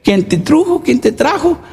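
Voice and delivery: lilting Michoacán singsong, rising at ends; singsong Michoacán speech. Retold or imitated. Church brother Benito greeting, singsong Michoacán lilt. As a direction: sing the question like a man from Michoacán. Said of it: "hablaba así cantadito, pues, así, bonito".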